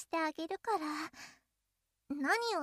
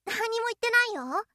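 feigned innocence; 5 semitones higher, 6 dB louder than usual. Acted. Denying the aside innocently.

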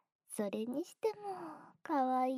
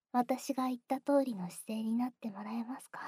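whisper. Acted. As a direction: whisper the request close.

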